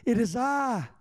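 reassuring Jesus. Retold or imitated. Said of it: "And he's like".

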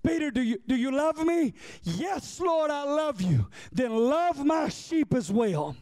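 high, drawn-out preacher's cry; impassioned preaching. Shown as a demonstration. Preacher re-voicing Jesus questioning Peter, impassioned and high. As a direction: preach it out, stretching each phrase high. Repeats exchange in raised preaching voice.

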